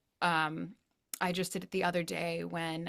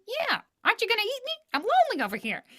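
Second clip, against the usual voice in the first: much higher, pleading little food voice; talking food voice; 5 dB louder, faster than usual. Pretend. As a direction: play the lonely food begging to be eaten. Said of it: "the food's talking".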